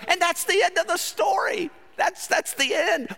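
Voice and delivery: loud, high story finale; loud punchline. Acted. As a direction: belt out the ending.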